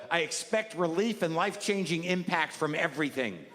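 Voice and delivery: reading a note. Retold or imitated. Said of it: "This one just says".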